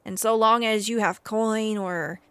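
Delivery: lightly voiced stable master making an offer; a hint of a haggard stable hand, pleading for the animal. Stable master offers a traveler a trade, lightly voiced haggard man. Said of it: "And the man looks to you and says".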